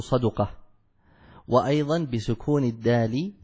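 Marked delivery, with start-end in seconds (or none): 0.0-0.5 صدقة said with fatha on the sad and damma on the dal, ṣaduqa; صدقة spoken carefully as ṣaduqa; صدقة, open ṣa then rounded du; saduqa. Shown as a demonstration. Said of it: "بفتح الصاد وضم الدال فتقول".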